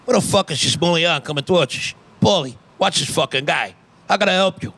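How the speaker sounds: lightly voiced New Jersey mobster; a hint of a wary mob boss; Tony Soprano. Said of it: "improv a California gang member doing a drug deal with Tony Soprano".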